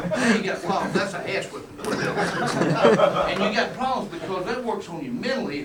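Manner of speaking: talking through laughter; laughing. Real, not acted. Coach explaining an ass whipping, laughing while talking. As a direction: say it still chuckling.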